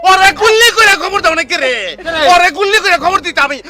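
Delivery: loud, high, tearful rage; furious crying shout. Acted. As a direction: yell for someone to shoot him. Son rages at father.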